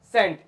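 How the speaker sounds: सेंट starting with an S sound; soft C. Shown as a demonstration. Teacher modelling C before E, सेंट with an S sound. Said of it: "क्या होगा बेटा?".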